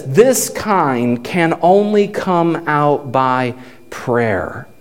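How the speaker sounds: low, slow, softening to near silence; grave, hushed reply; solemn answer. Retold or imitated.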